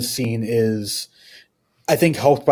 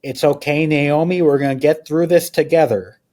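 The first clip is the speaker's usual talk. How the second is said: Lynch impression; 4 semitones higher than usual. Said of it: "he goes".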